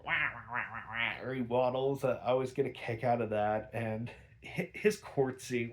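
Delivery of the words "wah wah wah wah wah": imitating Penguin.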